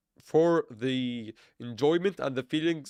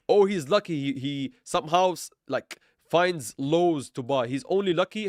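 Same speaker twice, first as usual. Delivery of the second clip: sarcastic; 3 semitones higher, 3 dB louder than usual. Acted. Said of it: "for being overly sarcastic here".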